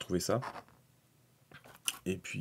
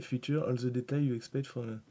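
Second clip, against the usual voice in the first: French-accented English read-out; English read aloud in a French accent; self-mocked English accent; 3 semitones higher than usual. Shown as a demonstration. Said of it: "avec mon superbe accent anglais".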